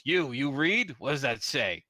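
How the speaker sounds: lightly voiced orc; gruff orc demand. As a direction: demand an answer from the stranger.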